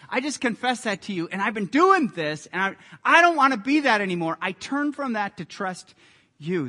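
emphatic, pleading confession to God; earnest confession. Acted. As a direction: confess it openly, pressing on key words. Acted prayer of confession to God.

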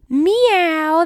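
cat meow. Shown as a demonstration. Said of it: "What sound does a cat make?".

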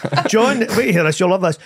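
blethering uncle, lightly put on; Uncle Patter. Shown as a demonstration. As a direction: tee up a story as a hint of a patter-merchant uncle. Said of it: "It was just a voice I did".

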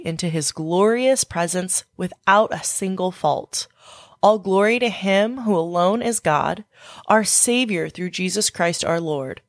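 measured, phrase-by-phrase prayer reading; scripture prayer. Acted. Closing the podcast by praying scripture with listeners, measured prayer reading. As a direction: read praise aloud with deliberate pauses.

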